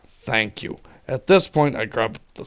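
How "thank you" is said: voice cracking. Retold or imitated. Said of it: "voice cracking like a teenager".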